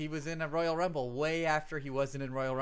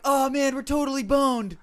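high, loud hammed-up dread; mock panic; 10 semitones higher, 10 dB louder than usual. Two kids fearing the neighbour after a broken window, mock panic. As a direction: yelp it like a busted kid. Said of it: "it's like".

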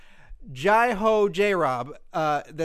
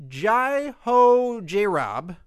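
careful name; 5 semitones higher, 5 dB louder, much slower than usual. Shown as a demonstration. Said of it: "I've been practicing all day".

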